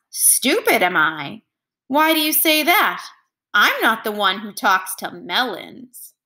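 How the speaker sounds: mock the king from inside the melon; cheeky melon. The hidden melon cheekily answers the insulting king.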